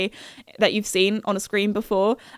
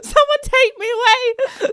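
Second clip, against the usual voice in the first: mock pleading; 13 semitones higher, slower than usual. Mortified after the blunder.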